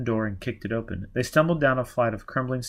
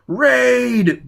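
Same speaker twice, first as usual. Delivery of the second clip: much higher, loud warning cry; alarmed shout; 12 semitones higher, 9 dB louder than usual. Acted. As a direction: yell it across the hospital. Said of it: "Baker shouted".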